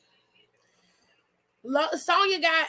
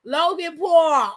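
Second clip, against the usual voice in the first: scornful emphasis; 3 dB louder, slower than usual. Real, not acted. Mocking the match lineup.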